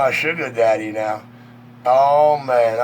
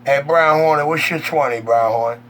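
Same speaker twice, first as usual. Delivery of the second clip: over walkie talkie; 3 semitones higher than usual. Real, not acted. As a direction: hail him over the CB. Calling over CB radio.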